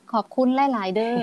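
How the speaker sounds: slow, careful Isan Thai with a rising เด้อ; Isan dialect. Shown as a demonstration. Teacher showing a learner the Isan thank you, slow Isan Thai. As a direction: say หลายๆเด้อ the Isan way, slowly. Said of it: "ก็เป็น".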